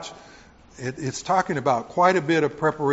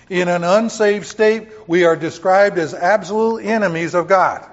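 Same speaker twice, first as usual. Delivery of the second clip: higher, louder preaching; 4 semitones higher, 5 dB louder than usual. Real, not acted. Preaching to the congregation, raised and loud. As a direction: pastor pressing hard, raised up.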